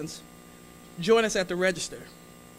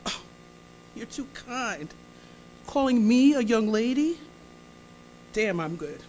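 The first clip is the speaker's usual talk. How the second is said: put-on charmed old lady; 3 semitones higher than usual. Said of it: "She's already charmed".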